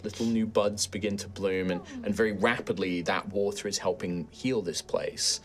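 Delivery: softly told scene setting; game master narration. Acted. Game master describes the grateful forest healing, soft narration. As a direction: narrate gently with measured pauses.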